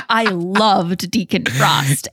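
slow breathy confession whisper; mock whisper. Confessing a crush on the vampire villain in a slow whisper. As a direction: whisper it like a guilty secret.

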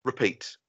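"Repeat" with a short, weak first syllable; correct pronunciation. Shown as a demonstration. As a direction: say "Repeat" as ruh-PEAT. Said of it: "she can't say repeat".

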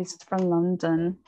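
slow, imitated London English accent. Shown as a demonstration. Guessing how actor John Boyega sounds, London accent. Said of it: "¿será que tiene un acento así?".

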